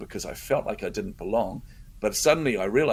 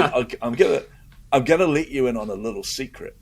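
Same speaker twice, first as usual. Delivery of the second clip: laughing while quoting; 4 semitones higher, 5 dB louder than usual. Retold or imitated. Quoting the speaker's secret.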